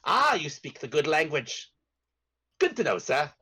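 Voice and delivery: put-on British-accented Elvish prisoner. Prisoner greeting a newcomer who speaks his language, British accent. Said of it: "British accent".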